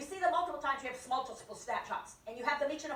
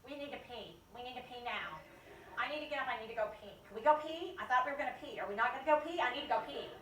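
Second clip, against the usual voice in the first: whiny bladder voice; 4 dB quieter than usual. Retold or imitated. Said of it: "your limbic is going".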